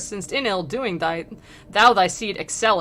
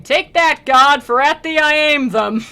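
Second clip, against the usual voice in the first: loud, high defiant shout at the heavens; a thief's loud, high taunt; defiant cry; 6 semitones higher, 8 dB louder than usual. A narrator's reading. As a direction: hurl it up at God, loud and high.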